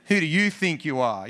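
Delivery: lightly loving question. Shown as a demonstration. Preacher showing the congregation how to ask, lovingly. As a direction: ask it lovingly, without challenge. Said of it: "say it with a loving tone".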